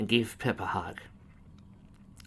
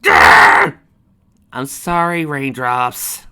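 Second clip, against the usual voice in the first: anguished cry; 4 semitones higher, 16 dB louder, much slower than usual. Acted. Grief-stricken outburst at grave.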